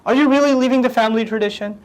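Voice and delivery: a father who can't believe his son's leaving; shocked father. Retold or imitated. Father shocked as his son leaves the family way, high stunned plea. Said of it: "The father is shocked".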